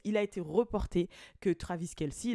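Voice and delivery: ordinary delivery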